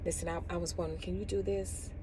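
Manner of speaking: soft, hesitant request; acting out a hesitant client. Client hesitantly asking the stylist, softly. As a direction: ask it timidly, stumbling. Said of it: "I'm acting it out".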